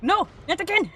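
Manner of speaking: high quote, No punched; mock whine. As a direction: quote yourself whining.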